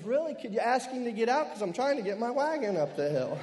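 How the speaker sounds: a hint of an exasperated child; lightly voiced little boy. Boy answers preacher in a story.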